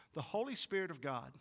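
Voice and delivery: Holy lifted out of the phrase; stress on Holy. Shown as a demonstration. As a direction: put the emphasis on the word Holy. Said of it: "emphasis on holy".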